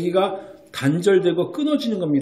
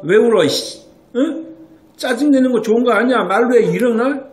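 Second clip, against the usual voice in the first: a touch of a scolding mom, louder and higher; half-hearted angry telling-off of a crying baby; mock scolding mother; 6 semitones higher, 5 dB louder than usual. Mother scolding her crying infant, mock louder irritated scolding. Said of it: "이러고 훈육하지는 않지 않습니까".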